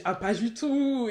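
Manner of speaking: lightly put-on Antillean accent, last word drawn out; imitated Antillean accent. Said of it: "j'ai oublié de dire qu'il avait un accent".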